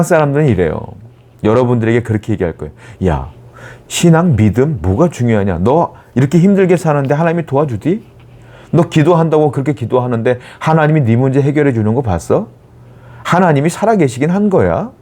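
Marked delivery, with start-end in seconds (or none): 3.1-14.9 mock jeering, questions swinging upward; sarcastic taunt. Worldly people jeering at a believer, mock sarcasm. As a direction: imitate a scoffer needling a believer. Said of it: "라고 비꼬고 우리를 모욕하고".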